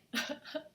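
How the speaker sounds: soft voiceless mock crying noise; hammed-up little burst of fake crying; dramatic mock sob. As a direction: imitate a quick dramatic sob. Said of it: "being dramatic".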